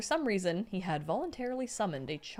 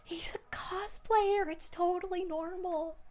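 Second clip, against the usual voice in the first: higher, hushed whisper; 8 semitones higher than usual. Retold or imitated. Mother whispering to the father, hushed. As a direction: whisper it like a sly aside. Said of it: "heard his mother whispering".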